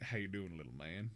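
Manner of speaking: soft, friendly put-on Southern drawl. Demonstrating the Southern R they came up with, in a Southern accent. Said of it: "this is the southern R R".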